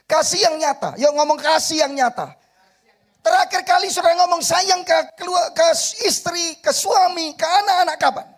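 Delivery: loud, high, fervent preaching; full-force preaching. Acted. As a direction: preach it out to the congregation.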